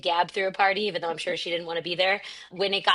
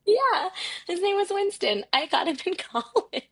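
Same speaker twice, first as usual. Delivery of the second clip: inside a closet; 12 semitones higher than usual. Real, not acted. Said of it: "I'm talking to you in the closet".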